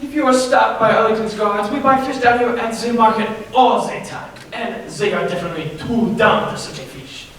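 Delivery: a lightly put-on French accent. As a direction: play a hammy fake French chef in a French accent. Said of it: "German accent".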